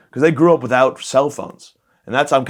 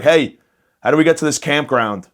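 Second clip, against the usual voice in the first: higher, raised voice hailing a stranger; accosting dad; 4 semitones higher, 4 dB louder than usual. Retold or imitated. Lost dad hailing a stranger for directions, mock pushy call. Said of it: "He just harasses some guys like".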